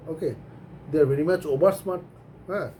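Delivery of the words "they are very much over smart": drawn out, over leaned on; slow mock-scolding stress; slow deliberate stress on over; slow teasing emphasis. Real, not acted. Teasing the young generation.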